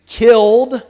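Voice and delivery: shouted out loud, fired up; preacher getting worked up, loud burst. Real, not acted. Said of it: "I'm getting worked up".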